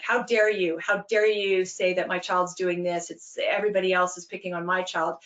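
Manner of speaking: a lightly voiced indignant parent storming in; mock angry parent. Parent storming in at the coach, mild mock outrage. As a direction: play the outraged parent, half-hearted. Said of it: "if a parent comes storming in".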